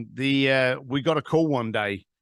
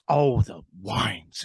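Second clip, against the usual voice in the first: slow, lower imitation of a wine lover; drawn-out, lower-pitched retold relish; changed, savoring tone; 5 semitones lower, much slower than usual. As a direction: savor the words slowly. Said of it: "again, his tone changes".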